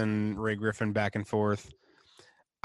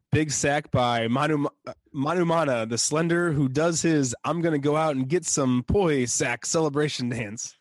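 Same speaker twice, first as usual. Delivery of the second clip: lightly voiced game commentator; higher-pitched imitated play-by-play, easing down at the end; Niederman; 3 semitones higher than usual. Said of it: "this next quote by Niederman".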